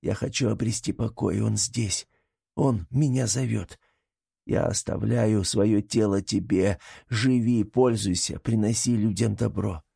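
lightly voiced weary plea to a brother; slightly drawn-out, resigned appeal; weary Artam pleading.

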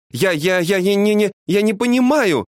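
high-pitched, stumbling repetitions; flustered stammer. A narrator's reading. Wife unable to understand husband's demand, flustered high stammer. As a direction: trip over the words in confusion. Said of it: "сбивчиво ответила София".

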